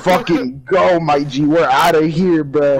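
loud, high, animated replay of panic; retold urging. Player retelling their escape to friend, loud urgent replay. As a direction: act out hurrying your friend away.

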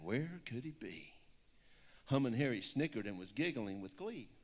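lilting rhyming picture-book read; story reading. Acted. Author reads her picture book aloud to an audience, storybook lilt. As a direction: read the rhyme with a steady storybook bounce.

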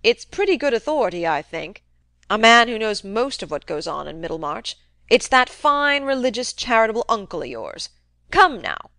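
put-on a crusty old man needling his nephew, loud; gruff old uncle. Old uncle goading nephew Fred about the rumour, crusty taunt. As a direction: jab at him like a sly old miser.

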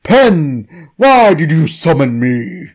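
gurgling cheese blob voice; gurgled voice. Acted. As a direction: speak through a throat full of goo. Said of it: "A gurgled voice leaves its mouth".

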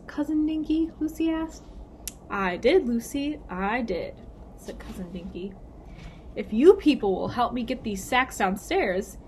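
lively, clearly paced storybook reading; story read-aloud. A narrator's reading. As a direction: read it to children, lifting the characters' lines. Reads story to children.

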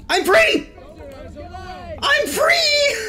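high, gleeful cry with laughter; jubilant shout. Real, not acted. Player breaking free in the game, jubilant shout.

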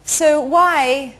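put-on halting, slow German-accented question; mock German accent, word by word; German journalist. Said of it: "German, uh, journalists come in and say".

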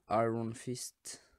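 slow, self-mocking English accent on "Iron Fist". Shown as a demonstration. YouTuber reading out a card name, in a mock English accent. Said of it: "Vous avez vu mon accent qui est magnifique".

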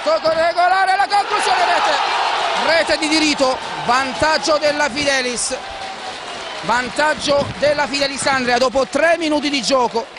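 rising excited goal call; live play-by-play, building to the goal; breathless italian goal commentary. Acted.

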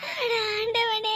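drawn-out tearful sigh to God; slow sob. Acted. Mother crying out to God, slow sob. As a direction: let the prayer dissolve into a sob.

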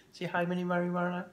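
quick, very quiet, low greeting; hushed. Real, not acted. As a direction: keep the hello down for a sleeping house. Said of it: "don't wake the whole house up".

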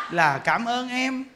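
là cảm ơn em said softly and slowly, amused; soft mock thanks. Wife thanking husband's mistress, soft slow mock gratitude.

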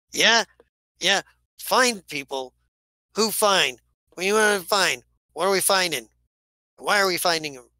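agitated. Acted. Captain's rapid suspicious questions.

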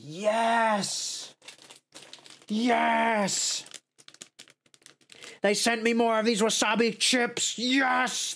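gleeful high yes; excited cheering. Real, not acted. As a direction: cheer with delight. Excited about wasabi chips.

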